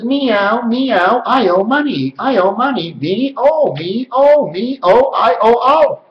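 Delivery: high sing-song chain, words run together; said fast. Shown as a demonstration. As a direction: roll the syllables into one repeating lilt. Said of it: "you'll say it fast".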